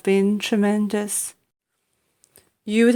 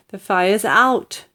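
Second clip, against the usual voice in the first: proud announcement; slower than usual. Acted. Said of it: "George announced proudly".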